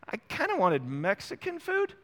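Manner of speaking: a hint of the wife asking for Mexican; imitating his wife. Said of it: "my wife tonight goes".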